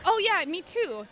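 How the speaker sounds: high, drawn-out imitation of an eager cat. Cats joining owner's bathroom trip, imitated eagerness. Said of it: "And they're like".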